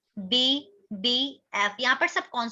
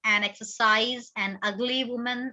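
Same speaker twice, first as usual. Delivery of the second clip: slow, careful example words; 2 semitones lower, much slower than usual. Shown as a demonstration. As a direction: read each example slowly. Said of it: "अब ये examples देखिए".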